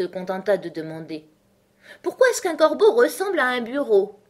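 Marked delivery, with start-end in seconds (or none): 2.0-4.2 high, animated character voice; Hatter posing a riddle. Acted. Hatter puts a riddle to the company, high and animated. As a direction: pose the riddle high and emphatic.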